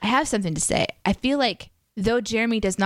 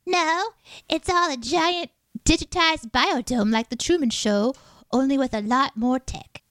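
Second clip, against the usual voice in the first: put-on kid's voice; 5 semitones higher than usual. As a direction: play a bratty five-year-old. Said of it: "Why am I doing this kid's voice?".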